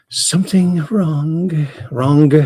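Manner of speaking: "Something wrong" slowly, with a hard G ending "wrong"; overpronounced final G. Shown as a demonstration. Streamer mocking how people end their words, overpronounced G. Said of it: "overpronouncing, uh, the G on the end of words".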